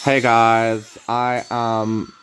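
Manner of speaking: slow, halting put-on voice; lightly voiced muscle fighter; a slow deliberate hammy intro; Alex voice. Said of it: "He talks like this".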